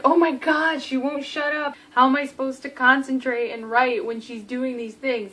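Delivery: mock griping, imitating an annoyed roommate; exasperated. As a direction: act out a fed-up outburst. Acted quote of irritated character.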